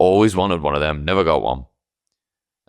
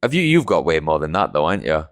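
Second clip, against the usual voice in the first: cheeky wheedling. Retold or imitated. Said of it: "and I'll go, like".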